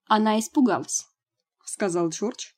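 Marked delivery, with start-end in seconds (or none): 0.1-1.0 said over a slurp of tea; sipping hot tea. Acted. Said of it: "громко прихлёбывая чай".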